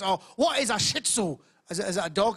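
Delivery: put-on lightly caricatured Chinese accent; a touch of mock Chinese accent. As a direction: imitate a Chinese man telling a joke. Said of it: "a Chinese guy saw my show".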